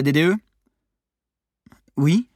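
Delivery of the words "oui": small hesitant yes; a shy secretary answering the phone; lightly voiced timid reply. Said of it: "répondit une voix timide".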